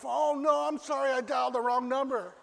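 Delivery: high, loud flustered apology with a laugh; embarrassed young mom. Acted. Caller realizes wrong number.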